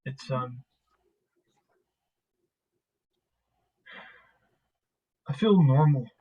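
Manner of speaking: lightly voiced man opening up, haltingly; reflective, halting man. Man admitting others have had loss too, halting and subdued.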